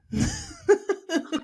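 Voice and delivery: bright high giggle breaking out; embarrassed high laugh; high burst of laughter. Real, not acted. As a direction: laugh at yourself, high and sudden. Laughs at own attempt.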